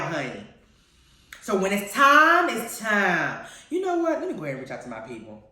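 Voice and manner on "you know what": usual speaking voice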